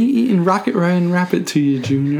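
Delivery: light attempt at a New York cartoon rabbit; Bugs Bunny. Co-host trying Jackson's accent for the other host, half-hearted Bugs Bunny impression. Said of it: "he's supposed to sound like Bugs Bunny".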